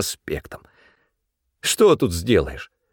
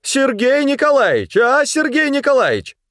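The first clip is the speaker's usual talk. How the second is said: high, loud call for the boss; 3 dB louder than usual. A narrator's reading. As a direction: call him from across the room. Woman calling for help.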